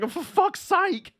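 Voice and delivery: exasperated groan. Retold or imitated. Streamer voicing a stuck driver, slow exasperated groan. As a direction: drag it out like a driver sick of waiting. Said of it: "Ingram's just like".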